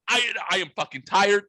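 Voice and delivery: high-pitched, worn-out exasperation; retold screaming rant. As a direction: complain at the dog, voice pushed up. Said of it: "I am now screaming at this dog".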